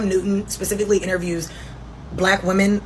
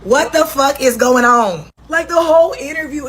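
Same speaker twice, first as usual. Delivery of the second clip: exasperated outburst; 6 semitones higher, 5 dB louder than usual. Real, not acted. Exasperated commentary.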